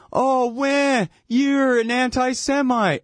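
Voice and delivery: high whiny accusation; hammed-up outrage; mock offended whine. Mocking offended adults.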